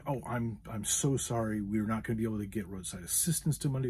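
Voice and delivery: acting out an empathetic customer apology; imagined sympathetic agent breaking bad news; sincere apology. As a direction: apologise with mild, earnest sympathy. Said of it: "start off with a sincere apology".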